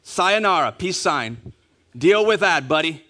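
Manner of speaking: smug mic-drop send-off; mic-drop taunt. Retold or imitated. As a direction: toss it off smugly and walk away. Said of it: "Drops the mic, walks away".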